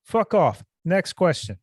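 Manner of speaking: imitating a fighter brushing off a reporter, harder on fuck off; a hammed-up snap at the press; mock angry brush-off. Mock quote of Colby snapping.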